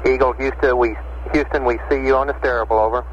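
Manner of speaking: crackly radio transmission; over walkie talkie. Real, not acted. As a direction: voice coming through a radio link. Radio call to lunar module.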